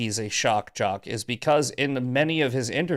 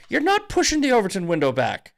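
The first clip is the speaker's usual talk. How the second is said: higher, heated retort; retold rebuttal; 5 semitones higher than usual. Retelling how he told off Myron, heated. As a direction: scold him, rising in pitch. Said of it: "I go".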